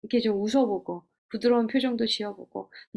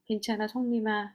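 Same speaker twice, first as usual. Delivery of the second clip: tender comfort; 5 dB quieter than usual. Retold or imitated. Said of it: "하나님이 우리에게 그렇게 해주시잖아요".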